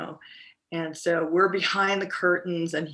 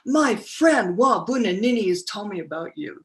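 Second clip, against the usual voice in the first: high, loud hushed imitation of Kwame; imitating Kwame; 7 semitones higher, 7 dB louder than usual. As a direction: play the famous activist, intense and close. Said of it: "he turns to me and he goes".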